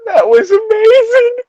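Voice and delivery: high, loud, overblown awe; a squealed, hammed-up wow; mock amazement. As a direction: gush it like a fake fan.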